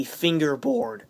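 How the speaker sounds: slow, cracking voice. Real, not acted. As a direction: voice breaks on the word. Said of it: "Voice cracks".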